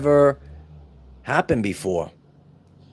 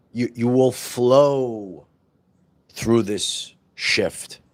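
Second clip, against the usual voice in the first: slow soothing; 2 semitones lower, much slower than usual. Acted.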